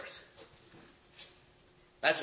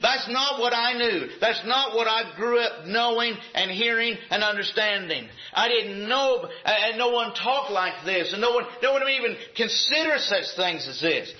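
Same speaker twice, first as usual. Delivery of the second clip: put-on higher, indignant voice of someone stuck in the old ways; lightly voiced objector; mock old-timer complaint; 4 semitones higher than usual. Preacher voicing a churchgoer's protest, mildly raised. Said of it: "why is it that we say".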